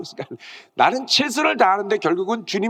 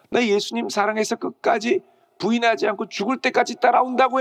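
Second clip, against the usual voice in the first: lament; 6 semitones higher than usual. Acted. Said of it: "베드로는 심하게 통곡하며".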